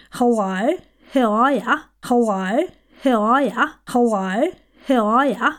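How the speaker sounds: repeated Antipodean greeting with elongated vowels; Antipodean accent. Shown as a demonstration. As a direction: Antipodean drill, each phrase swinging up. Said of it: "you're just elongating bits".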